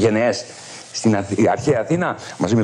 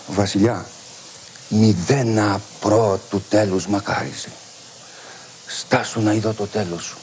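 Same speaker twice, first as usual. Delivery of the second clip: solemn sage's verdict; 4 semitones lower, 4 dB quieter than usual. Retold or imitated. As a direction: speak like a wise man weighing every word. Solon's grave answer to the king.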